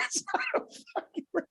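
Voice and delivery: fast, high, softened mock panic; imitating shaking wife. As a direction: rush it in a strangled falsetto, mimicking panic.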